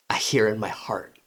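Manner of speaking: soft unvoiced whisper. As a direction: breathe it like an inner voice. Inner voice heard.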